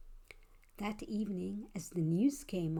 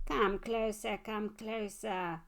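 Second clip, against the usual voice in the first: moaning monster; slower than usual. Acted. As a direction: moan it out like a lurking monster. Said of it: "I heard it moan".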